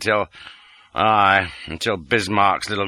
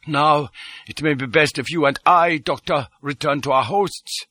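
raised, businesslike character voice; Detchard, in command; 6 semitones higher than usual. A narrator's reading. Detchard suggests the doctor leave with him, businesslike. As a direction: pitch it up, politely taking charge.

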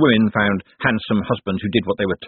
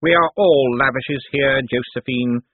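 slow, raised stern rebuke; 5 semitones higher, slower than usual. A narrator's reading. Cosmo reproves Josephine at the family meeting, stern. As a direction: put her in her place sternly, taking it slowly. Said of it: "he said sternly".

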